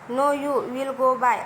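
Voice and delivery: slow, cold and angry dismissal. Acted. Boss angrily dismisses Manu from his cabin, slow and stern. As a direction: spell each word out slowly in anger. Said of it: "आधी रागात बोलला".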